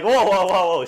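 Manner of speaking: loud, high retold interruption; exclaimed, hammed-up objection; mock protest. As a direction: cut in to halt the imitated tirade. Acted protest cutting off the insults.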